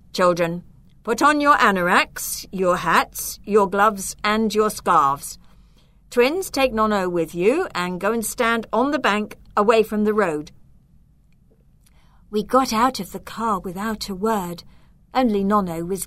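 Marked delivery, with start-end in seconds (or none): 0.1-10.5 firm, a bit louder, tense underneath; tense but firm. Acted. Dad ordering the children out of the broken car, tense and firm. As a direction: give clear orders while holding nerves back. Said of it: "in a tense but firm voice".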